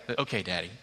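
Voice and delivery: lightly voiced toddler, low and meek; small compliant little girl. Two-year-old answering her dad, meek toddler voice. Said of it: "toddler reply".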